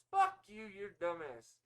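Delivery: hammed-up angry shout; mock outburst. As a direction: explode at an imagined caller. Mock outburst at imagined phone customer.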